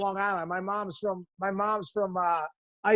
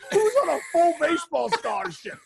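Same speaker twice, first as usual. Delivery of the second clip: indignant disbelief; 7 semitones higher than usual. Retold or imitated. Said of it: "I'm like".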